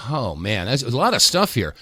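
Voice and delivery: breathless after a long rant; winded and pausing for air; out of breath. Real, not acted. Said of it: "I'm out of breath".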